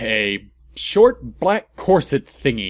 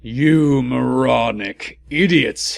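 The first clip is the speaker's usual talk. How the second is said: angsty shout; slower than usual. Acted. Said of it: "he shouted angstly".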